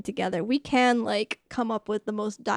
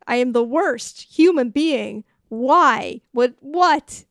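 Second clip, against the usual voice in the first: acted exasperation; 5 dB louder, slower than usual. Acted venting to her girlfriends.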